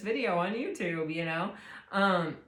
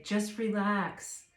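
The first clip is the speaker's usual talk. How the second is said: slow, soothing just relax; a slow calming mantra; calm soothing quote; much slower than usual. Retold or imitated. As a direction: ease the listener down slowly. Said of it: "like Michael Singer will say".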